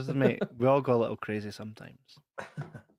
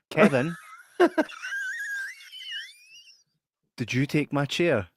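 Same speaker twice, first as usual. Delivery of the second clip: accusing question; 9 semitones higher than usual. Retold or imitated. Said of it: "in my face".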